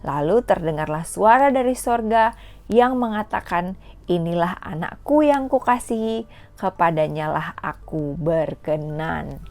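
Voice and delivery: put-on measured, clear Bible reading for children; scripture reading. Teacher reads Matthew to kids at home, in a clear storytelling read.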